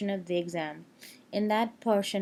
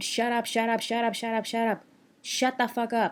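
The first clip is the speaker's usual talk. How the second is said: mock exasperated outburst, repeated over and over; 2 semitones higher than usual. Retelling hanging up on someone on the phone: retelling own scream. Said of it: "I just screamed".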